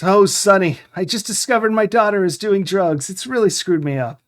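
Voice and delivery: a hammed-up depressed old man; mock depressed. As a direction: ham up a sad drunk friend's lament. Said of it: "Jack speaks in a very depressed voice".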